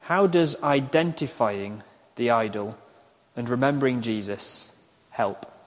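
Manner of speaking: measured question, pausing between phrases; slow dictation. Real, not acted. Preacher reading second question for note-takers, slow dictation. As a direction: hand it over phrase by phrase. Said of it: "I'll say them slowly".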